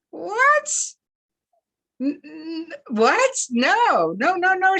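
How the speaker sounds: sudden high, loud cry of disbelief; the news hits her, cry out and stammer; shocked disbelief. A narrator's reading. Grandmother hearing the plane vanished, crying out in shock. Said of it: "shook her head in disbelief".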